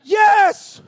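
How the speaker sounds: very high, very loud, slow triumphant roar; cheering shout. Retold or imitated. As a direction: bellow it like you're on your feet in the cinema. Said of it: "You know, like".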